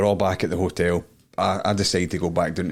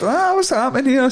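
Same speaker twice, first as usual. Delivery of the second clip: mock surprise; 5 dB louder than usual. Retold startled reaction.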